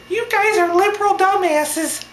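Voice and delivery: very high squeaky puppet falsetto; mock insult in a squeaky puppet voice; Elmo voice. Heckler insulting the Occupy group, in high puppet falsetto. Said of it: "His voice sounded just like this".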